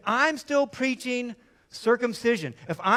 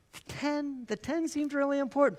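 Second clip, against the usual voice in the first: higher, hesitant questioning voice; mock doubter; 4 semitones higher, 3 dB quieter than usual. Preacher as skeptic challenging Paul, higher and pleading.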